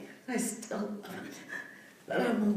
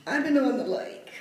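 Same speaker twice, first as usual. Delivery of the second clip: choked up; 3 semitones higher, 6 dB louder than usual. Real, not acted. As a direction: voice catching with real emotion. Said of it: "I get emotional".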